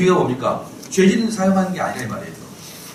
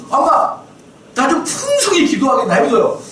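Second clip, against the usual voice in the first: put-on pleading child; 9 semitones higher, 4 dB louder, slower than usual. Mock pious child to mom.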